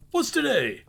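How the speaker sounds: high, loud call to the street. Acted. Scrooge calling down to a boy, high and loud. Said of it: "cried Scrooge".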